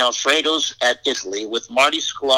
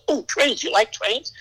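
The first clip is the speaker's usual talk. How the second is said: high-pitched delighted discovery, retold; light up at spotting a favourite thing; imitating a man's pleased surprise; pleasantly surprised; 13 semitones higher than usual. Walt spots the train drawings.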